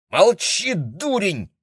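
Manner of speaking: резкий, высокий злой окрик; рявкни на него зло. A narrator's reading. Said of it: "разозлилась Мэйли". (злобно, визгливо рявкнуть)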